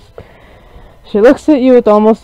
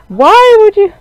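high hurt cry; 13 semitones higher, 7 dB louder, slower than usual. Acted. Voicing character, hurt cry.

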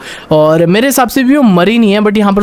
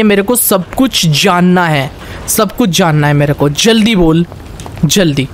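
angry interrogation; 2 semitones higher than usual. Pretend. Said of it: "मुझे इस time इतना ज़्यादा गुस्सा आया हुआ था".

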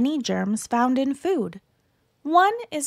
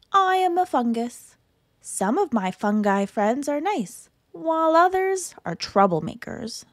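cute germ voice; 3 semitones higher than usual. Acted. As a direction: chirp it like a cartoon fungus. Fungus introduces itself.

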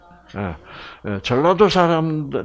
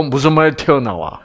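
usual speaking voice

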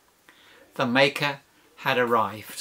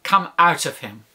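firm, slightly raised order; mildly forceful rebuke; stern command; 3 semitones higher, 3 dB louder than usual. Acted. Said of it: "said Jesus sternly".

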